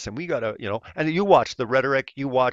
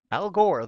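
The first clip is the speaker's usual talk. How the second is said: Gore punched high and louder; stress on Gore; 7 semitones higher, 3 dB louder than usual. Real, not acted. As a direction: hit Al Gore with a higher louder push. Quote climax on Gore.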